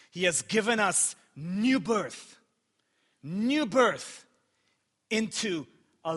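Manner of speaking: measured, emphatic scripture reading; scripture proclamation. Acted. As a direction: proclaim the verse with deliberate pauses. Reads scripture aloud to congregation.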